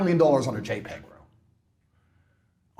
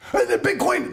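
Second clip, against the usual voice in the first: mock influencer; 8 semitones higher than usual. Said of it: "one guy who yells all the time".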